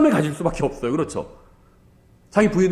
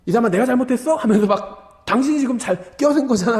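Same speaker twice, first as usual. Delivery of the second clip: a raised, mock-angry driver's comeback; mock angry retort; 7 semitones higher than usual. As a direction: snap back at the other driver, half-acted. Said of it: "창문 내리고 같이 욕하거든요". (운전자에게 맞받아치는 흉내 낸 화난 말투)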